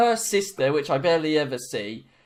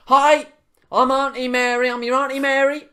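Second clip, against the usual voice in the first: high, loud hard-of-hearing auntie; imitated shouting; 9 semitones higher, 7 dB louder than usual. Hard-of-hearing great-aunt greeting her relative at the busy tills, shouting. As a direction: shout it like she can't hear herself. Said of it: "she's shouting 'cause she's got really bad hearing".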